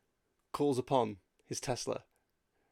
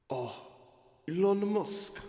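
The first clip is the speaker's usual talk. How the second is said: Steve Jobs voice; 8 semitones higher, 3 dB louder, slower than usual. Acted. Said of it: "These some great voices you're doing".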